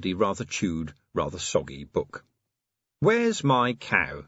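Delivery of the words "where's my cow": slow grand announcement; announced. Acted. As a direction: present the book title slowly. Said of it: "he announced".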